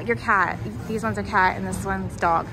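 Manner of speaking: ordinary delivery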